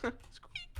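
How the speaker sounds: very high, soft mouse squeak; tiny squeak. Acted. Answering the table with a tiny high mouse squeak.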